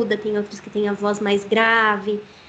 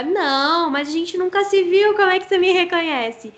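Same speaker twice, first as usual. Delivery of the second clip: raised pitch, puzzled retold reply; higher-pitched mock bewilderment; baffled protest; 6 semitones higher than usual. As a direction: act out being puzzled by a stranger. Acting out baffled reply to stranger.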